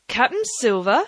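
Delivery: rising, mocking query of the name; scornful question. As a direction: throw the title back at him with a rise. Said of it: "cried the captain".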